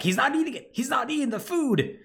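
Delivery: high, shrill-free panicked mother voice pitched far up; freaking out Marguerite. Retold or imitated. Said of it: "Marguerite freaks out. Is like".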